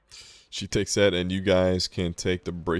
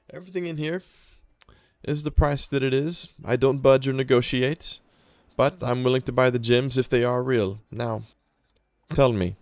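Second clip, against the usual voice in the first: higher-pitched shopkeeper voice, firm on the price; 5 semitones higher than usual. Acted. Shopkeeper to customers selling gems, firm shopkeeper voice. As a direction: lay down terms as the shopkeeper. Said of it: "she's gonna say".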